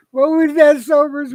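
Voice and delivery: laughing. Real, not acted. Laughs at the odd bit.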